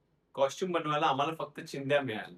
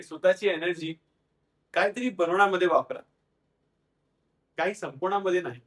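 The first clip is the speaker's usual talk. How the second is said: emphatic, slightly raised motivational delivery; quoting mother's advice; 3 semitones higher, 4 dB louder than usual. Retold or imitated. Daughter quoting her mother's lesson to the audience, emphatically. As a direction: pass on a mother's saying with conviction. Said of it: "ती नेहमी म्हणायची".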